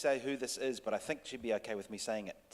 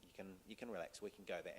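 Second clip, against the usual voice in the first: very soft, soothing inner voice; reassuring herself; 3 semitones lower, 14 dB quieter, faster than usual. Retold or imitated. Actress talking herself into the vulnerable place, reassuring. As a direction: gently give permission to relax. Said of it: "then she said".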